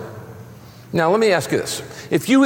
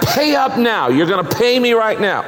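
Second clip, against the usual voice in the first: higher, mock-demanding creditor; harsh creditor; 5 semitones higher than usual. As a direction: lightly act out a bullying demand. Servant voiced choking debtor.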